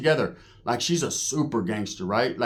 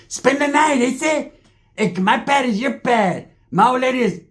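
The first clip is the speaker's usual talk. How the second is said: exaggerated host voice; 10 semitones higher, 5 dB louder than usual. Host offering his pad, voiced.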